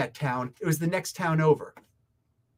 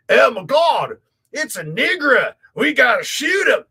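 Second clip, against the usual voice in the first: hammed-up panic, shouted and raised; overacted alarm at an outsider, yelling; mock panicked locals; 5 semitones higher, 7 dB louder than usual. Imagined panicked locals quoted.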